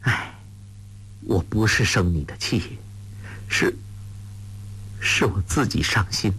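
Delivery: soft, mild sigh of sorrow; understated heartache. A narrator's reading. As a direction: sigh it out quietly. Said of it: "穆念慈叹道".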